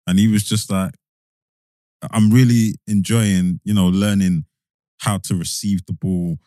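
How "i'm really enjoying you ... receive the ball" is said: slow, measured retold interview answer; imitating a player patiently laying it out; breaking it down. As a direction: explain it piece by piece, unhurried. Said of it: "like he was breaking it down".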